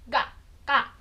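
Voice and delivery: "Ga, ka" with the tongue at the back of the mouth. Shown as a demonstration. Teacher asking students to copy back-of-mouth consonants. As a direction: contrast voiced "Ga" with unvoiced "ka". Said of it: "Faz você aí também".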